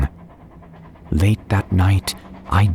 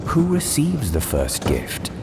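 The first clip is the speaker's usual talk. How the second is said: put-on children asking; 9 semitones higher, 4 dB quieter than usual. A narrator's reading. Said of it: "we all asked".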